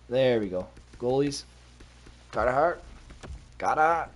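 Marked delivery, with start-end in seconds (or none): 3.6-4.1 bad Philly accent, dropped Rs. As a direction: attempt a hammed-up Philadelphia accent. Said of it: "As they say in Philly".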